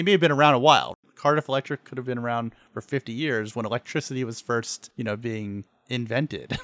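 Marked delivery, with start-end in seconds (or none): 5.9-6.6 drawn out, as if in quote marks; air quotes. Real, not acted. Podcaster hedging on when electricity was invented, air-quoted. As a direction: set the word apart in slow air quotes. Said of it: "put air quotes when you say invented".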